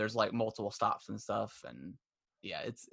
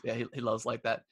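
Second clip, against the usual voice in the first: ordinary delivery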